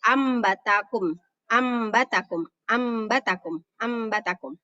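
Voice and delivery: long hummed m in "Ambatakum"; mim sound before ba. Shown as a demonstration. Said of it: "kayak ada huruf mim".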